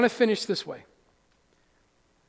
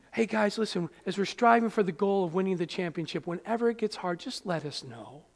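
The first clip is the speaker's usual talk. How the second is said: softened, gentle team talk; mock coddling coach; 2 semitones lower, 6 dB quieter than usual. Coach to athletes when it gets hard, mock coddling.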